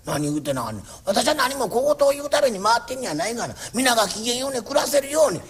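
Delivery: a lightly voiced fussy old landlord making his rounds; nagging landlord. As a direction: scold each tenant kindly but nonstop. Landlord answers his wife. (小言好きの家主が長屋を回って小言を言う口調)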